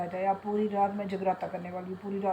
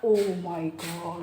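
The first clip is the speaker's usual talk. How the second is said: slow, low gasp of dismay; startled oh my God; sudden alarm; 4 semitones lower, much slower than usual. Real, not acted. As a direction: realize the pot is burning. Remembers rajma on stove.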